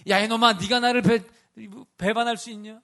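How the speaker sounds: loud, high scolding rebuke; resentful rebuke. Pretend. Pastor imagines Jesus scolding Peter, loud angry rebuke. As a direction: bark it like a betrayed master. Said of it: "원망하는 눈빛으로?".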